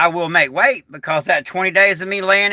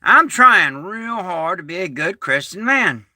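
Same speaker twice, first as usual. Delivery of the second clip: "trying" leaned on and stretched; stress on trying. Real, not acted. Admitting his failings to viewers, stress on "trying". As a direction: put the weight on "trying". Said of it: "I emphasize the word trying".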